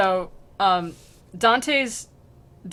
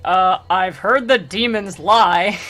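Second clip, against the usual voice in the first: louder, slow, breaking into laughter; laughing mock friar; 7 dB louder, slower than usual. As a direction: say it dry and crack up. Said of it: "he's like".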